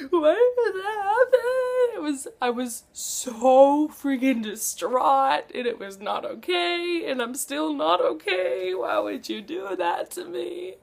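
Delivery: high, slow, crying whine; high teary whine of a heartbroken reader; mock tearful wail. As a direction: wail it like you're still crying over the book. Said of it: "I cried on the phone".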